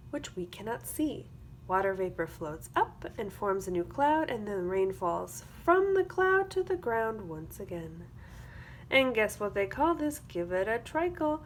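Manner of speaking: put-on lively storybook read for young kids; sing-song picture book reading; reading to children. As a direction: read it like circle time, bright and clear. Reads a picture book aloud.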